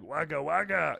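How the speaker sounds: a hint of Fozzie; lightly voiced puppet bear. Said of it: "what the Fozzie is just like".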